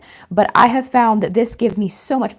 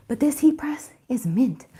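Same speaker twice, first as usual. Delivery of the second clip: whispering; 2 semitones higher than usual. Real, not acted. Confiding about mint color.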